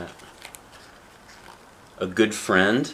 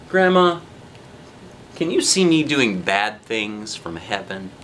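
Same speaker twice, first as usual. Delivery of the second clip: put-on questioning child; 2 semitones higher, 3 dB louder, slower than usual. Child asks grandma in heaven a question, slow child voice.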